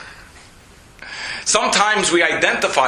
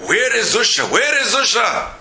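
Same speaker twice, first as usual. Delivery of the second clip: higher searching voice, a touch of bewilderment; pacing and asking himself, pitched up; rabbi wondering aloud; 7 semitones higher than usual. Retold or imitated. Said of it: "they heard the rabbi saying".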